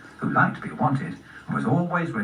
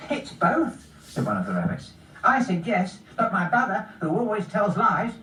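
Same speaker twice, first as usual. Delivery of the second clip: sister rabbit; 8 semitones higher than usual. Acted.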